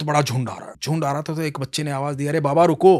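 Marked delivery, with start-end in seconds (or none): 2.3-3.0 put-on a boy calls out to the old man; raised voice to stop him; calling across the herd.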